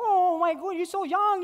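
high, loud mock amazement; vendor lady's surprise. Vendor lady amazed at his young family, high and gushing. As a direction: gush it like a delighted auntie.

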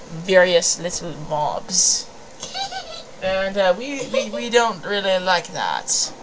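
halting Scottish-Southern blend; lightly mix Scottish and Southern, with halting pauses; Doctor Quark. Acted. Doctor warning about a problem pal, loose Scottish-Southern accent. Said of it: "Scottish and Southern".

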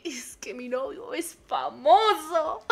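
slow, soft laugh-cry words. Real, not acted. Streamer bragging to chat about famous boyfriend, laughing softly. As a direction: giggle through the brag.

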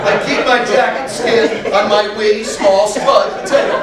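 deliberately spaced-out comic translation; slow decoding. Retold or imitated. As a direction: spell out the puzzle piece by piece. Slowly decodes the Irish phrase.

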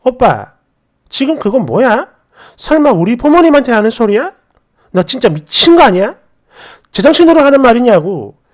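understated acted outrage; exploding in anger. Girlfriend confronting boyfriend over insult to her parents, mild outburst. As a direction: confront him with contained anger. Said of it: "저도 참지 못하고 바로 폭발했죠".

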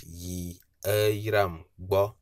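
"yi Aram bo" slowly, sliding down on "Aram"; downward slide tone. Shown as a demonstration. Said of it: "it's a downward slide intonation".

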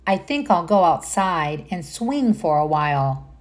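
gentle storybook narration; reading to children. Acted. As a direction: read it like bedtime to little ones. Reads picture book aloud.

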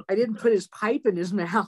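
laughing shout at own goof. Real, not acted. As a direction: blurt it out laughing.

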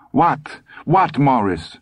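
high-pitched fretful question; anxious wife. A narrator's reading. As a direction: answer him in distress. Weeping wife answers injured husband.

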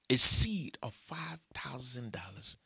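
slow, very loud, each word hammered; slow loud emphasis. Real, not acted. Preacher to congregation, slow booming emphasis. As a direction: pound out every word. Preacher drives home the sum.

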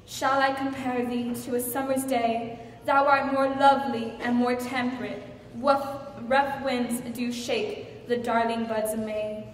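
measured verse recitation; sonnet recital. Acted. Wife wooing Charles with a sonnet, reciting. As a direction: recite it as a love poem. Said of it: "I've written you a sonnet".

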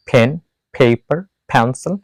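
ফেন, পেপার, পেন্সিল with the first P puffed like ফ; "phen, pheipar, phensil", air on each opening P; aspirated P. Shown as a demonstration. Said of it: "ফ এর মতো উচ্চারণ করতে হবে".

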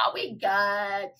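slow, lazy mock-drunk reassurance; lightly voiced drunk brother. Drinking brother brushing off his sister's warning, lightly tipsy. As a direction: drag it out like a tipsy brother, mildly. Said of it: "You know, he drinking and stuff".

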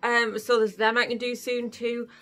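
talking with face mask on; speaking through mask cutout; wearing a sheet face mask. Real, not acted. Seen 2: Printed sheet mask covers the whole face; mouth shows through a cutout.

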